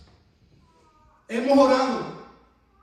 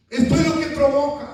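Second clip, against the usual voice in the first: emphatic; 2 semitones higher, faster than usual. Acted. Repeated line, punched second.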